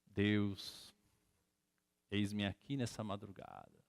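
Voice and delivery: low, slow, solemn prayer voice; hushed mock-pious prayer; pious praying. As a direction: intone it slowly like a very devout man. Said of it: "com toda a piedade do mundo".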